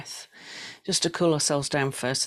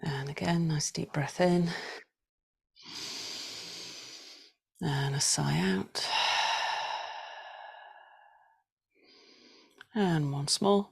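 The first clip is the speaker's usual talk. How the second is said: slow, drawn-out breathing cue; breathing guidance; 4 dB quieter, slower than usual. Shown as a demonstration. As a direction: stretch the words to pace each breath. Cues slow breathing and sighs.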